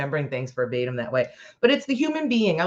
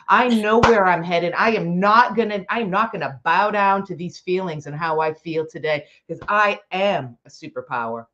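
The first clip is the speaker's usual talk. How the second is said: loud, defiant self-belief; louder rallying cry to a friend; fired-up pep talk; 4 dB louder than usual. Acted. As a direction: pump her up, full conviction.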